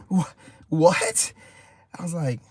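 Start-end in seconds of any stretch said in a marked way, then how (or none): 0.1-1.3 disbelief. Retold or imitated. Disbelief at the accusation.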